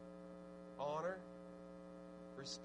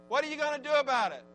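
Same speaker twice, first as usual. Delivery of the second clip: 1 louder; 7 semitones higher, 10 dB louder, faster than usual. Shown as a demonstration. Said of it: "repeated louder, higher".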